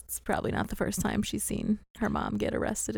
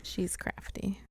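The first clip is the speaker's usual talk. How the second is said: faint hushed whisper, much softer; 10 dB quieter, slower than usual. Pretend. Podcaster echoing her co-host's joke, soft whisper. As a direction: echo it under your breath.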